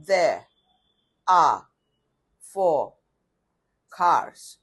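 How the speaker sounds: British accent, there and are with silent r. Shown as a demonstration. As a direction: drop the r in for and cars, British style. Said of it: "British English की तरह".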